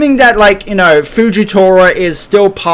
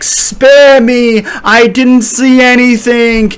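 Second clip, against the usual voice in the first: high, hammed-up begging; mock panicked plea; 7 semitones higher, slower than usual. Fleeing Wapol begging to be spared, mock panic. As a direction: plead in mock panic, pitched well up. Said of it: "running for his life, ... and he's like".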